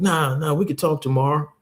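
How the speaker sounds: lightly voiced shy pastor; pastor's voice. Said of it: "He's like".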